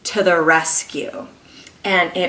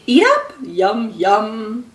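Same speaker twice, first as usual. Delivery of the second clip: mother coaxing. Acted. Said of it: "Missus Watson said in her sleep".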